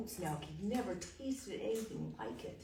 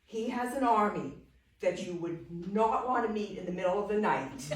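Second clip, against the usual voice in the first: louder, higher, laughing through the praise; laughing boast; 4 semitones higher, 10 dB louder than usual. Acted. Young man boasting to the Duke, louder and laughing. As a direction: gush with laughter over the castle.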